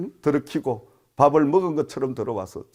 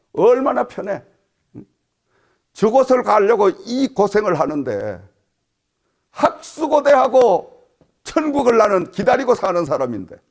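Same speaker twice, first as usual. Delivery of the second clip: high, loud pulpit voice; raised, urgent sermon delivery; impassioned preaching; 7 semitones higher, 9 dB louder than usual. Real, not acted. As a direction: preach it out with force to the congregation. Preaches with rising force.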